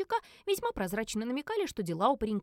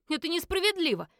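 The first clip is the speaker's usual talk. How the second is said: put-on higher, whiny like a kid; childish protest; 8 semitones higher, 4 dB louder than usual. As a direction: complain like a sulking child. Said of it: "совсем по-детски заявил Эд". (по-детски обиженно, выше)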